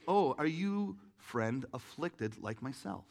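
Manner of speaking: put-on blind old man. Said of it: "this old man who's blind".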